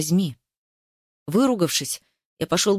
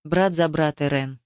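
lower, firm, every word set down; hard and resolute; 5 semitones lower than usual. Acted. Ruslan repeats the vow to his brother, hard and resolute. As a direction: seal the vow with finality. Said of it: "повторил жёстко, решительно".

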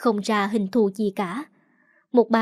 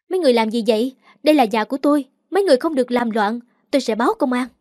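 mild shout; much faster than usual. Acted. Narrator calls out at women beating her sister, mild shout. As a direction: call out firmly at the intruders, not a full yell. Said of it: "chỉ có thể la lên".

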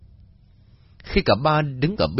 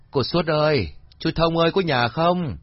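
calling into the house, higher; 6 semitones higher than usual. Acted. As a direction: call for the owners. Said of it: "Ông Kha cũng gọi phụ Hiền". (ông Kha gọi chủ nhà, giọng cao)

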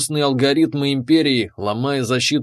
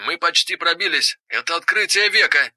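higher, eager and beaming; excited; 4 semitones higher than usual. Acted. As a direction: gush about the discovery. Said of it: "Он сиял от счастья".

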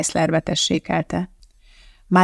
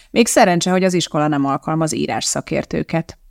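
usual speaking voice

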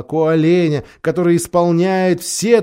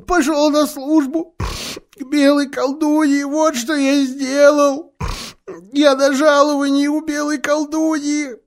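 Faun; 10 semitones higher than usual. A narrator's reading. Faun confessing, high voice.

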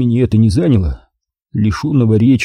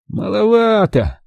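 slow, higher, dismissive; grimacing; 10 semitones higher, slower than usual. A narrator's reading. Ukhov wincing again at the diver's offer, slow and dismissive. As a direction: drag it out with a wince. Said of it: "опять поморщился Ухов".

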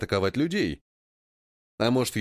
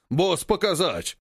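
slow, broken ape speech; ape leader voice; 4 semitones higher, slower than usual. Acted. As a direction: plod through it like an ape. (медленная речь обезьяны)

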